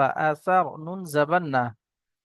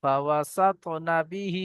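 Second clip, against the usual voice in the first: Quran recitation; 3 dB quieter, much slower than usual. Shown as a demonstration. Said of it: "teacher recites the verse".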